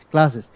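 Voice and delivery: "ক্লাসেস" said alone, ending in "sis". Shown as a demonstration. Teacher repeating the plural for students, "ক্লাসেস" ending in "sis". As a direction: model "ক্লাসেস" with a final "sis" syllable. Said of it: "তখন উচ্চারণটা কি হয় জানেন?".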